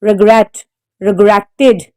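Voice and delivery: regretted, stressed on GRET; regretted with the weight on its second syllable. Shown as a demonstration. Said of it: "The stress is on the second syllable".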